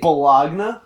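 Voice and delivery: "Bologna" said as spelt, with a sounded g; literal spelling pronunciation. Shown as a demonstration. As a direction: say "Bologna" as bo-LOG-na, questioning. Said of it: "they call it baloney".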